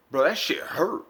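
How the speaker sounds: whispered, pained aside. Real, not acted. Confiding the pain, whispered. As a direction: hush it, still wincing.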